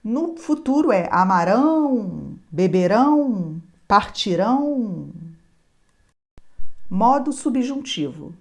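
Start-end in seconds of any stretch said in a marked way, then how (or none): 0.0-5.1 amarão, beberão and partirão stressed on the final rão; stress on the last syllable. Shown as a demonstration. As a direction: land each verb on its last syllable, rão. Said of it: "Observe também a sílaba tônica".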